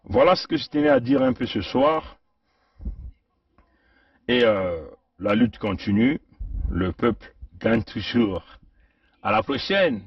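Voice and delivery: muffled through a helmet; speaking inside a helmet. Real, not acted. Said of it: "j'ai voulu parler un peu à travers le casque".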